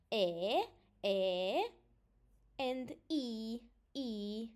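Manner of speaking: "E" held as eh, "I" held as ee; Romanian vowel demonstration. Shown as a demonstration. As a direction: repeat each vowel long and separate, non-English style. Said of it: "pronounced in a totally different way".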